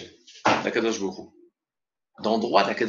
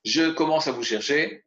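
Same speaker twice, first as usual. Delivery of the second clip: put-on child calling out; 5 semitones higher than usual. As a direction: call out like a kid starting the hunt. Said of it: "et il crie".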